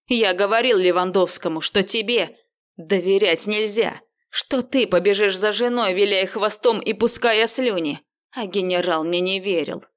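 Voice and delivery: loud bitter rant; furious rant. Acted. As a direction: rage at being betrayed. Viktor ranting, kicking the wheel. (громкая злая тирада)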